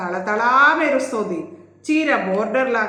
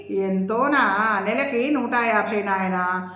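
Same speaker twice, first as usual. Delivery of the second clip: drawling; slower than usual. Acted. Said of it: "అందావిడ సాగదీస్తూ".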